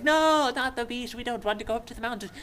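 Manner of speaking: high, wailing put-on fear; freaked-out mock panic. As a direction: whine in exaggerated dread. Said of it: "like, freaked out".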